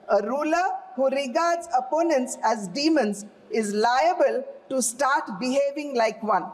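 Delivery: slow emphatic repeat. Shown as a demonstration. MP repeating the Economist quote to the House, slow and emphatic. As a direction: drive the quote home the second time. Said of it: "Again, sir".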